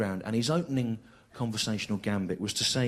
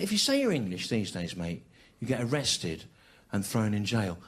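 matter-of-fact cabbie; 5 semitones lower than usual. Retold or imitated. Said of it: "he said".

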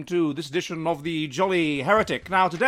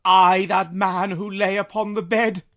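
Scrooge crying out; 4 dB louder, slower than usual. Acted. Scrooge on his knees begging the spirit, anguished cry. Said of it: "Scrooge cried upon his knees".

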